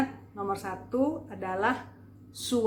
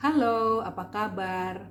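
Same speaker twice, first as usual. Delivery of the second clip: lowered formal voice. Shown as a demonstration. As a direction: bring the pitch down for a formal hello. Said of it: "maka kita bisa rendahkan nadanya". (nada direndahkan untuk forum)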